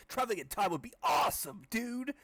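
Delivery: put-on high excited kid voice. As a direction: gush like a stoked kid.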